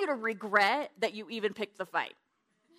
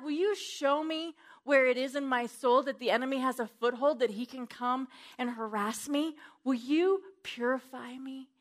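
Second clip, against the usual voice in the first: prayer to Papa; 2 semitones higher than usual. Retold or imitated. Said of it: "and I say".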